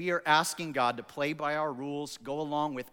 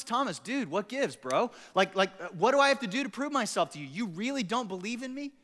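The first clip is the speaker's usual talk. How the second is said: exasperated buddy; 5 semitones higher than usual. Pretend. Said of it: "what I would say to Thomas is".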